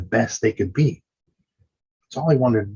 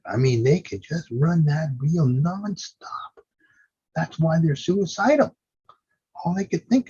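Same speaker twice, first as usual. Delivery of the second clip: whispered aside; 8 semitones higher than usual. Real, not acted. Aside about patients' rumination.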